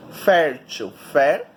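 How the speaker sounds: "fértil" slowly, then FÉR alone; slow teaching stress on the first syllable of "fértil". Shown as a demonstration. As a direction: sound out "fértil", isolating FÉR. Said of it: "descobrir qual é a sílaba tônica".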